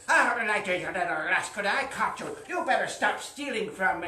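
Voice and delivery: loud, gleeful catch; triumphant shout. Acted. Farmer catching the leprechaun, loud and triumphant. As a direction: shout it like you've caught him at last.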